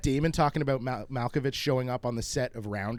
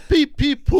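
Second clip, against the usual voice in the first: high squeaky peeps; peeping baby chick; 10 semitones higher, 9 dB louder than usual. Pretend. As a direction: chirp it out like a tiny chick. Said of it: "I've got something. I can do".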